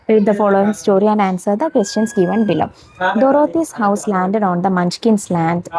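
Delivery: each word said slowly and clearly; slow dictation reading. Shown as a demonstration. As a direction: read it out slowly for the class. Reads story slowly for pupils.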